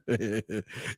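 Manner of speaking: low, soft chuckle; re-enacted laugh. Reacting to her claim in the story, chuckling. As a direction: chuckle as if hearing it for the first time. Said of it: "When she said she's a crime".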